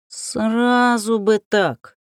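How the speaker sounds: растянутое кошачье мурлыканье; мурлыкай медленно, как довольный кот; мурлыкающий кот. Acted. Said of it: "мурлыкнул кот". (мурлыча, как кот)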